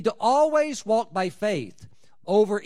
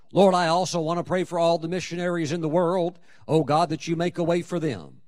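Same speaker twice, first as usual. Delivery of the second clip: a wordy, wandering prayer voice, lightly done; rambling prayer; 4 dB louder than usual. Pretend. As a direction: ramble on to God like a long-winded believer. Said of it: "They pray all over the place".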